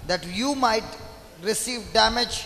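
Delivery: measured reading with pauses between phrases; scripture reading. Acted. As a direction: read the verse out deliberately, phrase by phrase. Reads the verse aloud. (நிறுத்தி நிறுத்தி வேதம் வாசிப்பது)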